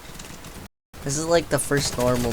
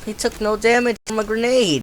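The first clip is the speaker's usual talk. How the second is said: incredulous; 8 semitones higher, 7 dB louder than usual. Real, not acted. Grenade fails on enemy.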